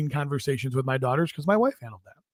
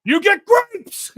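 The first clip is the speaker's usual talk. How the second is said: much higher, slow, hammed-up yell; mock dad shout; 6 dB louder, much slower than usual. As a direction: drag it out like a cartoon dad.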